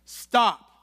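sharp loud "Stop."; loud commanding stop; exclaimed stop. Shown as a demonstration. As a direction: bark "Stop." with an exclamation mark. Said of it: "I say it like that 'cause there's an exclamation".

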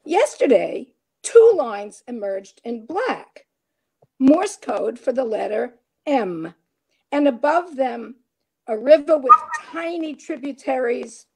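measured poetry reading with deliberate pauses; emphatic line openings, falling cadences; poem recital. Acted. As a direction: read it line by line, landing each phrase. Reads own poem aloud.

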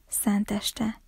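a hushed whisper of wonder. A narrator's reading. Little sister echoing Christmas Eve in a whisper. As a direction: breathe the word out softly, in awe.

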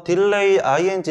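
"딜레이 아이엔지" run together as one chunk; joined-up reading. Shown as a demonstration. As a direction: link 딜레이 straight onto 아이엔지 for memorizing. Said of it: "이렇게 읽었잖아". ("딜레이 아이엔지"를 한 덩어리로 붙여서 읽기)

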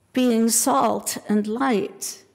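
slowed right down, leaning on each word; deliberate, weighty restatement; slow emphatic theme. Real, not acted. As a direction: drive home the sermon's theme.

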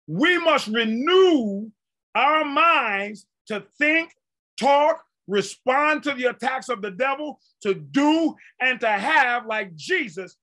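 slow, stretched-out proclamation; emphatic preaching. Real, not acted. Preacher laying down a principle to the congregation, emphatic preaching. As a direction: stretch key words, pausing between phrases.

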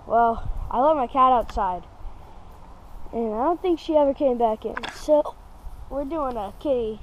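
talking through hiccups; speaking with hiccups. Real, not acted. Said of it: "Sorry, I have the hiccups right now".

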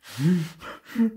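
high snuffling honk; noisily mimed nose blow; loud nose-blowing. A narrator's reading. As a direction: snort as into a hankie. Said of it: "schneuzte sich laut".

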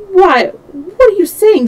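high, loud indignant question; shocked protest. A narrator's reading. Servant asked to hinder his master, shocked protest. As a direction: burst out in astonished protest.

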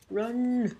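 high loud yell; loud alarmed shout. Real, not acted. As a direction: bark the word to flee. Fleeing in game.

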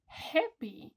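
cheery happy demo. Shown as a demonstration. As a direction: sound cheerful.

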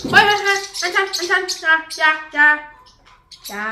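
sharp loud warning calls; scolding. Real, not acted. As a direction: stop the birds, firmly. Stopping birds from fighting.

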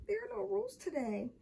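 high, small, forlorn voice; sad. A narrator's reading. Michael thinks it as his crackers are taken, sad. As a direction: think it aloud mournfully. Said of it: "he thought sadly".

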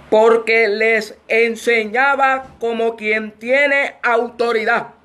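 measured Bible reading with long pauses; scripture reading. Real, not acted. Preacher opens the Mark passage to the congregation, measured scripture reading. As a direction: read the verse out deliberately, phrase by phrase.

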